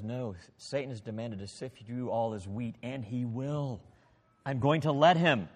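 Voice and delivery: quiet, earnest warning, slowing on the prayer; preacher voicing the true Jesus, sincere and soft. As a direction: promise the prayer steadily and gently. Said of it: "notice what Jesus says".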